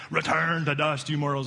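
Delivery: grand wizard's decree, lightly put on; Gandalf. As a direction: proclaim it with mock-British grandeur. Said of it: "It's like the ultimate Gandalf statement".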